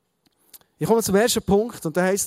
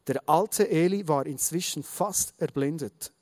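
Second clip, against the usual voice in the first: measured storytelling read-aloud; Bible story narration. A narrator's reading. Preacher reading the story of Samuel to the congregation, measured narration. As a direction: read the story out with deliberate phrasing.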